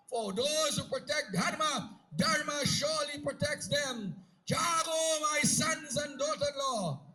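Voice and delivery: rousing blessing. Acted. Mother proudly blesses departing children.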